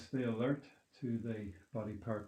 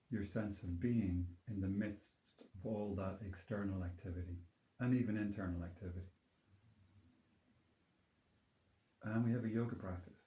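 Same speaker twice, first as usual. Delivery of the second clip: calm grounding exercise. Acted. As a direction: gently lead them back to their being. Leads a grounding meditation.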